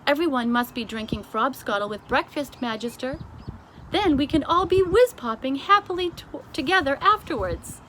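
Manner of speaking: high, loud eager giant; BFG enthusing. A narrator's reading. The giant explains frobscottle to the Queen, eager. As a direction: gush about the drink. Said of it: "the B F G answered".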